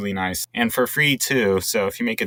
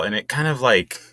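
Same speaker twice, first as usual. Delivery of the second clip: tripping over the words; stumbling, restarting words; stuttering. Real, not acted. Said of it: "I know I'm, like, stuttering over it".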